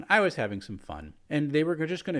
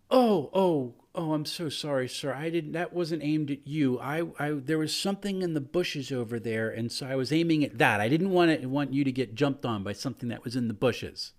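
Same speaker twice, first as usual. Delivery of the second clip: flustered apology; 4 semitones higher than usual. Acted. Cleric apologising to the kobold she nearly shot, flustered. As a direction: scramble to apologise, caught out. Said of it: "And my wife goes".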